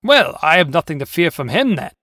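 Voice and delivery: loud, confident tiger voice; self-assured boast. Acted. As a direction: dismiss the danger loudly. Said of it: "the tiger boasted".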